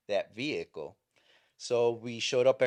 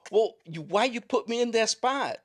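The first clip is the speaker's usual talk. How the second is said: much higher and louder, indignant; mock outraged protest; 13 semitones higher, 7 dB louder than usual. Chaplain protesting to the laughing deputy, much higher and louder. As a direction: throw the question back in disbelief. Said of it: "And I says".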